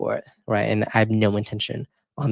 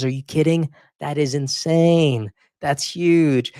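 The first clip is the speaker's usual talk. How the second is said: can't believe the numbers, really thrilled; genuinely excited disbelief; 4 semitones higher, slower than usual. Real, not acted. Amazed at his view count.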